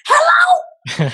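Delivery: fed-up yell answering a late-night call; annoyed hello. Retold or imitated. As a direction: snap it out like a rude late-night call woke you.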